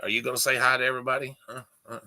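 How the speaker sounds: fast playful coaxing; pet talk. Real, not acted. Urging the dog to greet everybody, playful pet talk.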